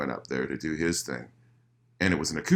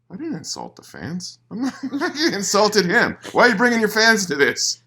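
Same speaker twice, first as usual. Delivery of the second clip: laughing, rising higher and louder in disbelief; laughing indignation; 13 semitones higher, 5 dB louder than usual. Real, not acted. Guest laughing as he complains fans were dragged in. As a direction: protest through laughter at the unfairness.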